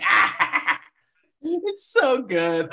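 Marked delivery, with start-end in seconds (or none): 0.0-0.8 mock scream. Acts Aunt May's scream.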